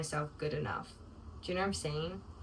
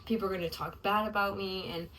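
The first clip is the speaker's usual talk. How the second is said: frustrated venting; 3 semitones higher than usual. Retold or imitated. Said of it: "my prayer request and, like, confession".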